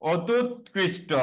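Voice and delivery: অত্যুৎকৃষ্ট said slowly, each part separate; slow syllable by syllable. Shown as a demonstration. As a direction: drag out অত্যুৎকৃষ্ট slowly for the class. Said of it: "লক্ষ্য করো, আমরা যদি এভাবে বলি". (ধীরে ধীরে ভেঙে বলা)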